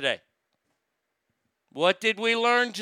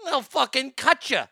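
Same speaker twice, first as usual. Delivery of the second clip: menacing, higher threat voice; unhinged villain; 6 semitones higher than usual. Pretend. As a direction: threaten like a slasher frog.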